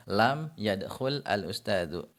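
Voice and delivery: lam yadkhul al ustazu spoken slowly, word by word; slow demonstration. Shown as a demonstration. Teacher slowly models the Arabic example. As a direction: spell it out slowly for learners. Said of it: "Contoh lain lagi misalnya".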